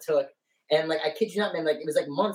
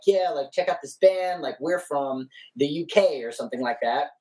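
put-on British accent. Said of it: "we'd pick accents".

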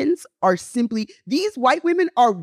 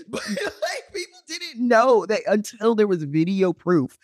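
laughing; slower than usual. Real, not acted. Laughing while telling.

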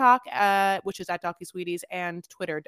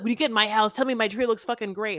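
mocking TC; 4 semitones higher, 6 dB louder than usual. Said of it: "He was like".

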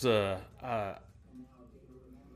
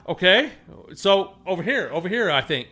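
laughing confusion; 6 semitones higher, 6 dB louder than usual. Retold or imitated. Unsure answer to Cajun worker.

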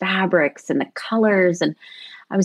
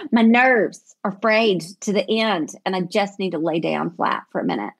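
put-on Southern accent. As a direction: play up the Southern frayed nerves a little. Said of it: "This is very Southern".

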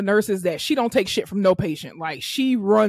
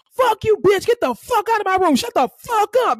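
higher, hurled insults; retold furious cussing; 10 semitones higher than usual. Retold patient cursing therapist out, higher angry yell. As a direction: rattle off the curses at her.

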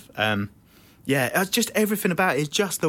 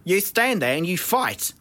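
put-on South African accent; slower than usual. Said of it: "that geezer's accent".

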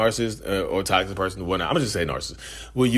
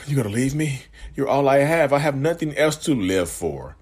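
higher pleading guilt-trip, mildly acted; guilt-tripping partner; 5 semitones higher than usual. Partner threatening when you try to leave, mild mock pleading. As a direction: act out the clingy partner begging you to stay. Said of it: "They'll say it just like that".

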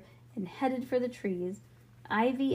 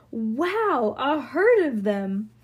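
loud, drawn-out wow; giggly amazement; 3 semitones higher, 7 dB louder, much slower than usual. A narrator's reading. Ivy seeing the running kids, giggly amazement. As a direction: marvel aloud, stretching the words. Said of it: "She giggled".

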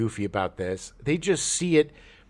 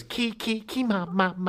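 imitated horror score; 5 semitones higher, 3 dB quieter than usual. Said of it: "And then it goes".

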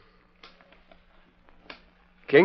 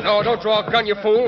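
urgent shout; 10 semitones higher than usual. Acted. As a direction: stop him before he fires. Gambler shouts to stop gunplay.

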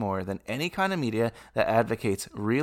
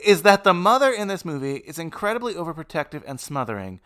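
rage; 6 semitones higher, 4 dB louder than usual. Real, not acted. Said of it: "I felt the rage".

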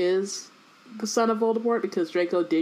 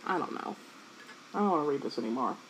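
whispering; 6 semitones lower, 10 dB quieter, faster than usual. Real, not acted. Fed up with the play.

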